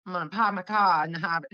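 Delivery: East Coast vowels with word endings left off; imitated East Coast accent. Showing friend the missing word endings, imitated East Coast accent. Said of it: "You forget the rest of the word".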